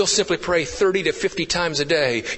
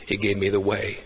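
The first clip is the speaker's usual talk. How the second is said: sinking lower and softer to a near whisper; hushed close; 8 semitones lower, 7 dB quieter than usual. Real, not acted. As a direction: draw them in as the sermon fades out. Sermon closing, voice sinking to hush.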